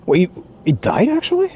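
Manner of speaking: sudden disbelief, voice jumping high on actually; startled high question; surprised. Real, not acted. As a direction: caught off guard that the stream dropped. Stream suddenly went offline.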